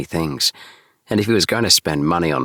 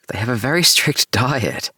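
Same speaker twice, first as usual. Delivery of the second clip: laughing; 8 semitones higher than usual. A narrator's reading. Laughing while answering.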